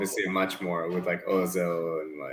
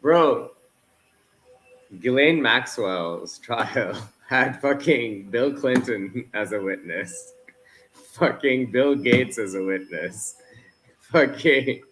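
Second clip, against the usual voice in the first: high, worked-up ranting; angry rant; 5 semitones higher than usual. Real, not acted. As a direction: vent it hard and fast. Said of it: "You're angrier than usual".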